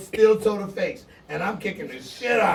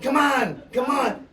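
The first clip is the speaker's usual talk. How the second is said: retold taunt; 5 semitones higher than usual. Opponent taunting before the fight.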